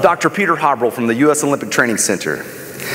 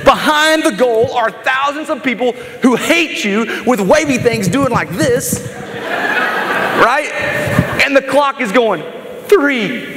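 higher-pitched, dramatic scene-painting; building suspense; 7 semitones higher than usual. Acted. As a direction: build the tension of the final seconds. Puts listeners in Jordan's shoes, countdown.

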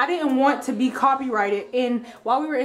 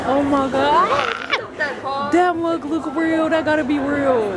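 amazed; 3 semitones higher, slower than usual. Real, not acted. Amazed at realistic mug.

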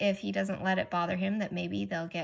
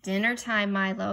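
louder call up the stairs; father calling; 5 dB louder than usual. Acted. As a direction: call him down to dinner. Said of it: "yelled his father".

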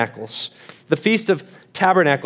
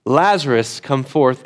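crying out; 3 semitones lower than usual. Retold or imitated. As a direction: call it out like summoning from the tomb. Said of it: "when Jesus cried out".

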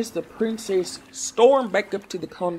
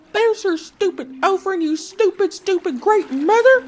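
much higher, louder furious yell; furious shout; 8 dB louder than usual. Acted. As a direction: hurl the words at the sea in rage. Princess throws offering, furious.

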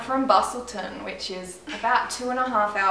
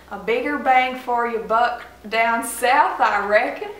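put-on American Southern accent. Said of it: "American South".

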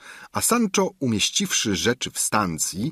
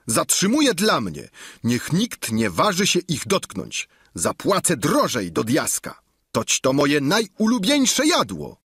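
Sancho's voice; 6 semitones higher than usual. Acted. Sancho claiming the ox feet.

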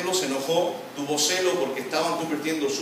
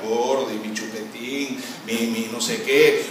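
sweet talk; 4 semitones lower, slower than usual. Pretend. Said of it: "le diga".

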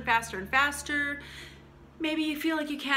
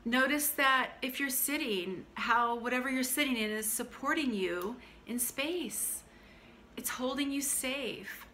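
calm grounding exercise. Acted. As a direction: gently draw attention to the senses.

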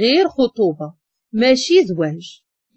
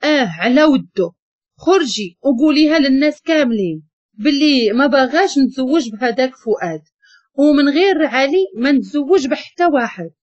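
mild angry retort; 2 semitones higher than usual. Acted. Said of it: "وهي تقول وهي معصبة".

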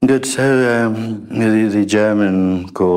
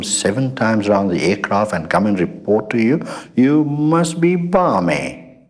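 incredulous sailor; 4 semitones higher than usual. Retold or imitated. Sailor scoffs at admiral's order.

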